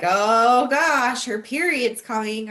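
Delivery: negative, fed-up partner's remark; exasperated groan. Retold or imitated. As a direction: sigh it out like it's a burden. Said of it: "that's super, super negative".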